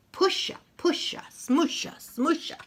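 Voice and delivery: squeaky pushing noises. Acted. Loader sound words.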